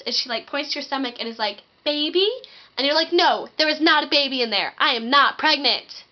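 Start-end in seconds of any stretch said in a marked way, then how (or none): 1.8-2.3 put-on little girl asking. Little girl asks about stomach. 3.1-6.0 higher, louder, huffy I am not pregnant; indignant denial. Retold or imitated.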